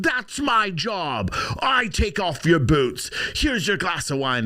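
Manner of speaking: mock indignant flip-out, drawn out; Amber. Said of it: "she flipped out saying".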